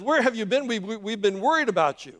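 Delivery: mildly worried. Acted. One of the nine to the returning man, mildly worried. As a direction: press the question with mild concern. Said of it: "They're all worried about where".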